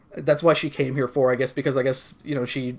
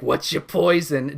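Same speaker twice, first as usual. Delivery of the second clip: lightly voiced squeaky rat bartender; a hint of a ratty tech voice; weird half tech rat voice; slower than usual. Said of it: "a weird half tech rat voice".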